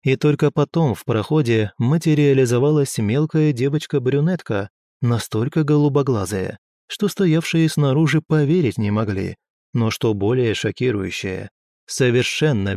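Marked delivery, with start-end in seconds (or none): none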